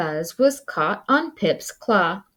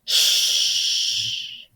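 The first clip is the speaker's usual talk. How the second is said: hushed unvoiced shush. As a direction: hush the others. Hushing others.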